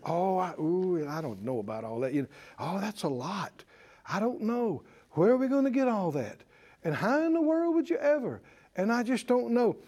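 doubtful naysayer. Retold or imitated. Preacher mocking naysayers, low soft worried voice. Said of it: "you'll immediately have naysayers".

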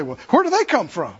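mildly mock-bristling retort. Pastor quoting his mom on his accent, mildly bristling. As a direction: imitate a touchy mother, lightly. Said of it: "She'd bristle".

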